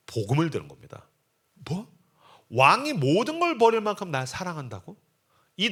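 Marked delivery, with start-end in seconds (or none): 1.5-5.0 higher, incredulous question; astonished disbelief. Acted. Wife hearing the king's confession, astonished disbelief. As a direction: repeat it back in amazement. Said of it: "놀라운 고백을 들은 거죠".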